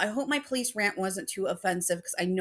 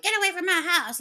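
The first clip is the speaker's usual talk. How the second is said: high, bright mock dog warning; dog's warning bark; 11 semitones higher than usual. Owner imitating her dog barking at intruders, high mock warning. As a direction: voice the dog guarding the house, pitched up.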